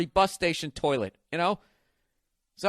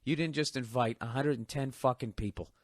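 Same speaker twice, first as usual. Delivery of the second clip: quieter, deflated retold plea; sinking dread; 3 semitones lower, 6 dB quieter than usual. Host begging partner for better news, deflated. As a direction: plead it low-key, heart sinking. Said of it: "my heart literally sank going".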